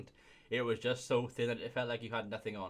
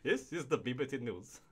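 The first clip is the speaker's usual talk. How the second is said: newsreader voice. Pretend. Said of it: "I sound like Trevor McDonald".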